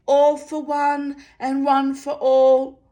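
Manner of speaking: high, loud, slow sentry chant. A narrator's reading. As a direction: ring it out to prompt him. Sentry prompts again.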